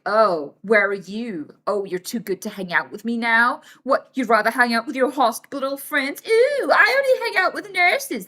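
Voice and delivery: sarcastic whiny jab, rising at the end; mock a clingy friend's guilt trip. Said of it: "So if you're like".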